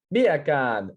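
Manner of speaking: imitating mum's mock-Jamaican "Beer can"; Jamaican accent. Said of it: "Say beer can in a Jamaican accent".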